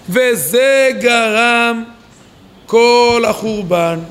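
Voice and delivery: very slow, drawn-out words; slow, weighty pronouncement; solemn emphasis. Real, not acted. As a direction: stretch each word for weight. Teacher emphasises the grave result.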